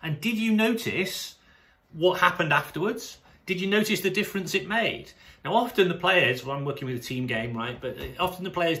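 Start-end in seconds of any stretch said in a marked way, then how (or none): 0.0-5.1 gently curious, rising question; curious coach question. Shown as a demonstration. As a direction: invite the player to reflect. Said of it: "I would ask it as a question".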